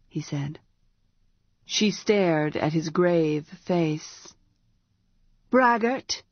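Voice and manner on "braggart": scornful. A narrator's reading. Priestess scornful.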